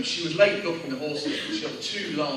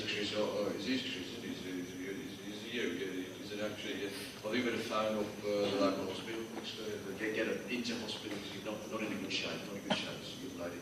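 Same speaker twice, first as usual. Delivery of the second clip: imitating the old man; 4 semitones lower, 8 dB quieter, faster than usual. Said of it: "the bloke just says".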